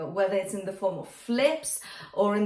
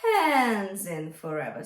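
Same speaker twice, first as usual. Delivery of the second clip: spoken, airy H then full voice on hands; spoken yodel exercise; spoken slowly; 2 semitones lower than usual. Shown as a demonstration. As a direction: start on air, then close the folds on hands. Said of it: "we can say it".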